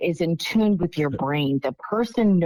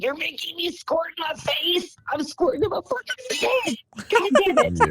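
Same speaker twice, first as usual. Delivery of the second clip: retold holler; 12 semitones higher than usual. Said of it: "screamed and hollered and I said".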